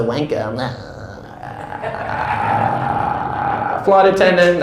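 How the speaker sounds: lightly mocking a pilot's cabin announcement, all ums and pauses. Comic mocking a pilot addressing the cabin, lightly hammed drone. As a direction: drone it like a bored captain over the intercom. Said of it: "spit their little dialogue".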